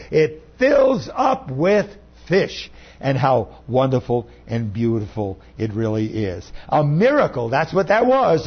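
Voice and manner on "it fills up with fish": higher, slow, laughing exclamation; laughing delight. Real, not acted. Preacher tells congregation of the miracle catch, laughing and excited. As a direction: burst out in delighted wonder.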